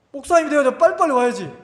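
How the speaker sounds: fast, high-pitched mock nagging; playful scolding. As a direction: hurry the pastor along, re-enacted. Acted phone call hurrying the pastor.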